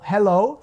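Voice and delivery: "hello" split slowly, open short E, long O; syllable-by-syllable model. Shown as a demonstration. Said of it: "ao invés de falar". ("hello" separado em sílabas, com O longo)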